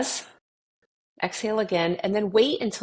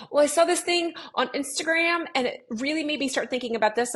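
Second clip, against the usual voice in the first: quoting a client; 9 semitones higher than usual. Retold or imitated. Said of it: "they'll say".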